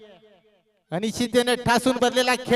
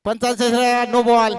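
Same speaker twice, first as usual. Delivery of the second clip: even-pitched commentator's confirmation; repeated umpire call. Real, not acted. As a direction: restate the call firmly without climbing in pitch. Repeats the call more evenly.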